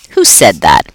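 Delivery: low, stern teacher question. A narrator's reading. Teacher questioning the class, low and stern. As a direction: demand an answer from the class. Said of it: "Brisbane looked around".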